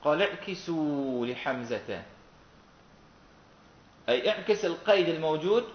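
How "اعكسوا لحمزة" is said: slow, drawn-out verse phrase; verse quotation. Shown as a demonstration. Teacher quotes the poet's rule, slow verse recitation. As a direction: stretch the long vowels of the verse. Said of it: "إيش قال؟".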